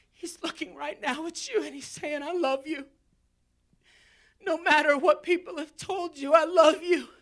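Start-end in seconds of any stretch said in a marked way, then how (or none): 2.2-7.1 voice of Jesus. Acted. Voicing Jesus speaking to listener.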